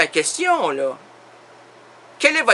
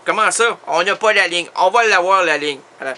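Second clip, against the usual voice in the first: ordinary talk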